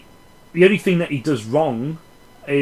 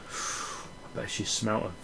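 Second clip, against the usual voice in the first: dreamy hush; 4 semitones lower, 10 dB quieter than usual. Pretend. Daydreams about the woman.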